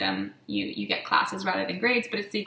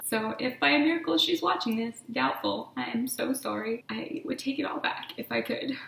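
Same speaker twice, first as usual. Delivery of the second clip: real tearful apology, a little raised in pitch; close to crying; 2 semitones higher than usual. Real, not acted. Apologizing to a lost friend, close to crying. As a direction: hold back tears while apologizing. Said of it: "cry in this video".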